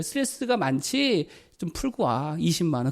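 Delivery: soft, slow, caring "스트레스가" falling gently; tender offer. Shown as a demonstration. A husband softly handing his wife money. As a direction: coax her kindly to go unwind. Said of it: "그걸 인정해줘야죠".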